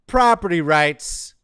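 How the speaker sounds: loud, slow, high proclamation; emphatic announcing. Real, not acted. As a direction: boom it out slowly to hammer it home. Hammering a point in a list.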